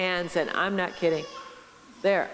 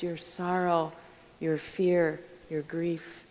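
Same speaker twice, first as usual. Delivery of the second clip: soft, slow and tender; tender Jesus; 3 dB quieter, slower than usual. Retold or imitated. Jesus kneeling at the listener's feet, slow and tender. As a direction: coax gently, like offering rest.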